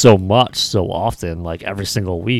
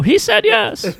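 zombie voice; much slower than usual. Retold or imitated. Imitating Backlund's answer.

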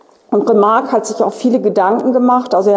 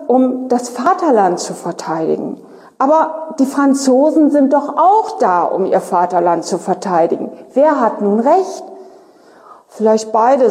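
reading a novel aloud to the class, clear and even; story reading. Acted. Teacher reading Remarque's war dialogue to students, storytelling voice. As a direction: read the soldiers' debate like a storyteller.

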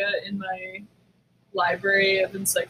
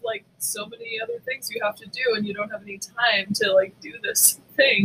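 mock pity; 4 semitones higher than usual. Mocking the friend's complaint.

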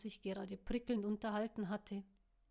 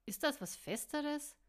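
loud; 7 semitones higher, 4 dB louder than usual. Acted. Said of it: "wollte Tuck laut wissen".

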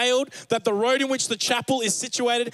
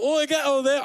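mock Australian shout; 5 semitones higher, 3 dB louder than usual. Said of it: "they weren't Australian like that".

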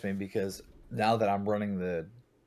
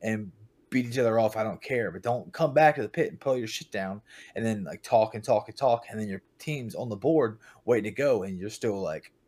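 retold yelling. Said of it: "I literally yelled out".

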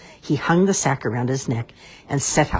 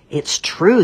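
loud, higher ogre roar; 5 semitones higher, 7 dB louder than usual. A narrator's reading. Ogre roaring at Puss, loud. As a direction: roar it out proudly. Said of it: "the ogre roared".

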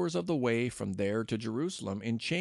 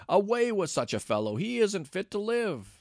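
higher and louder, slowing into a furious cry; crowd shouting; 9 semitones higher, 4 dB louder than usual. A narrator's reading. Angry crowd yelling at Paul to kill him, shouting. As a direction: bellow it like an enraged mob. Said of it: "Then they all began to shout".

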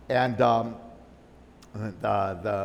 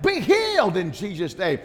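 raised healing cry; yelling out; 5 semitones higher, 3 dB louder than usual. Retold or imitated. Pastor's wife yelling healing over the lady. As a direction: call out the healing. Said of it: "she's yelling out".

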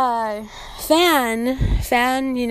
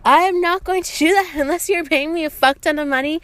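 indignant refusal; 5 semitones higher, 4 dB louder than usual. Retold or imitated. Acted firm refusal to a customer.

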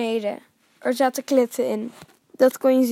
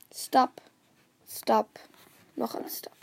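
whisper; 4 dB quieter, slower than usual. A narrator's reading. Dog creeping closer step by step.

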